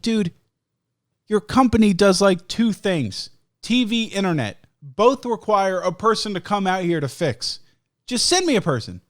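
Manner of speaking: frustrated. Retold or imitated. Frustrated demand, raised pitch.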